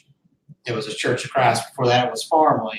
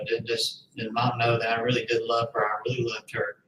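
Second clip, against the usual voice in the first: softly, getting choked up; 6 dB quieter than usual. Real, not acted. Retelling sister's grief, quietly choked up. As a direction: voice catching on the words. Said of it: "I'm starting to get a little choked up".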